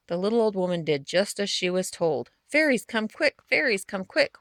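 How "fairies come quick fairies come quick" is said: calling out. Acted. Old woman calls the fairies out.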